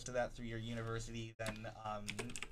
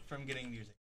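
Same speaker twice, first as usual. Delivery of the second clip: hiccups; 2 semitones lower, 6 dB quieter, faster than usual. Real, not acted. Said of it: "got the hiccups".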